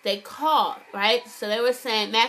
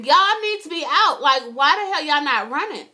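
mock yell at characters; 3 semitones higher than usual. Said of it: "Like, I was".

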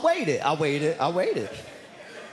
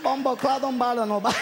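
mock shout; 10 semitones higher than usual. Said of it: "He like".

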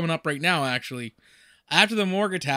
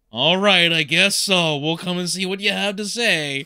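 mock compliance; 5 dB louder than usual. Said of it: "they're like".

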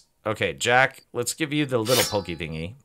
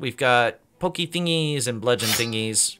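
rushed; faster than usual. Real, not acted. Rushing through upgrade choices.

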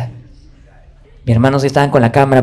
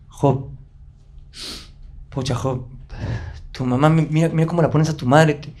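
gentle father; 2 semitones higher than usual. Retold or imitated. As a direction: comfort him like his dad. Father's soft talk in bedroom.

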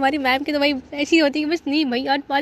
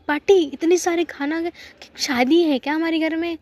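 surprised mom; 5 semitones higher, 3 dB louder than usual. Retold or imitated. Mom shocked at the huge shopping.

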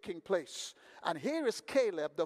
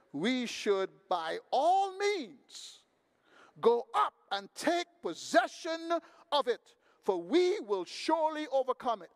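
Caleb declaring; 3 semitones higher than usual. Retold or imitated. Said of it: "Caleb rises up and says".

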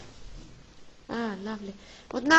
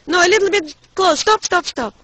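loud, higher-pitched instructions; real raised voice, urging at a distance; calling out directions; 6 semitones higher, 12 dB louder than usual. Real, not acted. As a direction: call out to position someone for a photo. Positioning daughter for a photograph.

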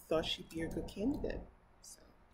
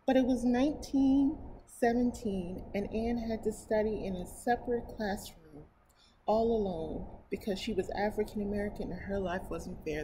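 story narration; 2 semitones higher, 3 dB louder than usual. Acted. Reading a picture book to her viewers, storybook narration. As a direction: read it aloud to children.

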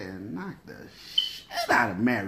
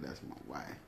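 low quiet man; 12 semitones lower, 19 dB quieter than usual. Retold or imitated. Quoting male line.

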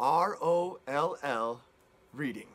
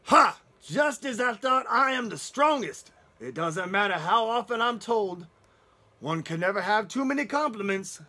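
a loud, boastful big bad wolf laughing at his own greatness; a triumphant Ha! then pure swagger; gloating wolf; 3 semitones higher, 5 dB louder than usual. Wolf crowing about being strongest, loud and smug.

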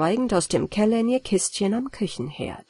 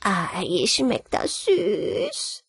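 delighted; 4 dB quieter, much slower than usual. Acted. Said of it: "rief sie erfreut".

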